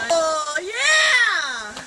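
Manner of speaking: shouting in icy water; in ice cold water. Real, not acted. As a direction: yell through the chill.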